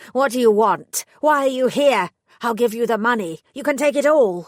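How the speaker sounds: loud, high frightened pleading; shaking voice. A narrator's reading. Terrified prisoner pleading with the fairy godmother. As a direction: beg her in panic. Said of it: "His voice shook".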